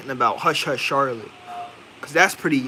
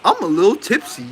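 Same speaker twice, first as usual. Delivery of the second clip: laughing through a higher tipsy voice; laughing tipsy quote; 5 semitones higher, 4 dB louder than usual. Retold or imitated. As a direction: giggle it like a tipsy woman. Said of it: "the way she said it".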